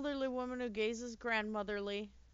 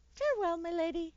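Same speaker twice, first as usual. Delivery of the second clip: high, loud and theatrical; grand farewell voice; 8 semitones higher, 7 dB louder than usual. Acted. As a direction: sweep out with a courtly flourish. Game character's farewell.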